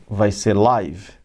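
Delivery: "live" said with a long i, like the YouTube live; live as in broadcast. Shown as a demonstration. Teacher contrasting the two "live"s, slow, with a long i. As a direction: draw out "live" slowly, rhyming with five. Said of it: "E quando for ao vivo".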